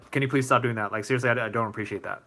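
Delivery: calm, low-key plea, easing down at the end. Shown as a demonstration. Streamer models asking someone to stop, calmly. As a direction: ask firmly but keep it even. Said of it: "in a calm voice, just like I'm doing right now".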